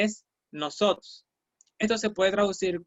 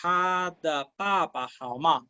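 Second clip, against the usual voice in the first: slow model phrase; slower than usual. Shown as a demonstration. Teacher modeling ta de papa for the class, slowly. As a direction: lay the Chinese out slowly for learners. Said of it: "Si yo digo".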